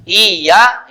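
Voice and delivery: "Iya" with a doubled, held y: "iy-ya"; "Iya" said firmly as "iy-ya"; with tasdid. Shown as a demonstration. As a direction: lean on the double consonant in "Iya". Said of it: "ini tasdid kan?".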